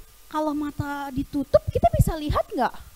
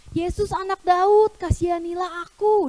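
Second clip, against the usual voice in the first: raised, higher calling out; loud cry; 4 semitones higher, 3 dB louder than usual. Acted. Blind man calls to Jesus for mercy, crying out loudly. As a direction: call out for mercy, a moderate shout. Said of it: "Dia teriak dengan keras".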